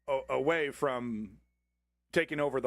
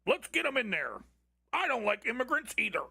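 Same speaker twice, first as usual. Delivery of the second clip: mocking German voter; 7 semitones higher than usual.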